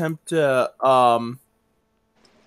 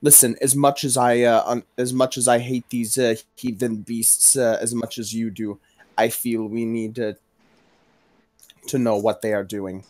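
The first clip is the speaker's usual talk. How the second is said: low stern plea; 6 semitones lower than usual. Acted. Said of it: "stop her and say".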